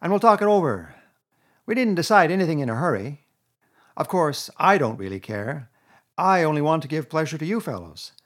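butter them up; smooth Toad. A narrator's reading. Toad flattering his friends into coming, honeyed.

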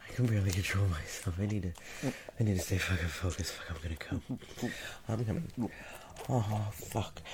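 fast breathless excitement; climaxing. Acted. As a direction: rush it out losing control. Losing control, climaxing.

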